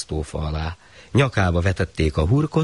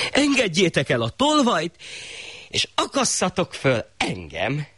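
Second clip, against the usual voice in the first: high commanding shah voice; the shah ordering his own hanging; high pompous decree; foolish shah; 11 semitones higher than usual. Acted.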